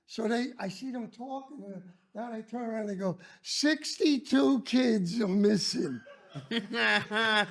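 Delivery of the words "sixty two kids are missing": slow laughing report. Retold or imitated. Staff report missing kids.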